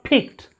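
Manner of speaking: "picked" with a strong puff on the P; over-aspirated P. Shown as a demonstration. Teacher shows students what to avoid, aspirated P in "picked". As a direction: pop the P of "picked" too hard. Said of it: "the aspiration is less strong".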